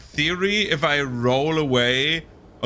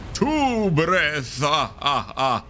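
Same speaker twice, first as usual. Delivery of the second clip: Count counting; 3 semitones higher, much slower than usual. Pretend. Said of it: "making fun of Count Count from Sesame Street".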